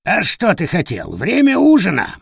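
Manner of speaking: high, sharp bird voice, jumping up on dinner time; a gleeful pet bird's taunt; mocking parrot. Parrot teasing in the dark. (высокий насмешливый голос попугая)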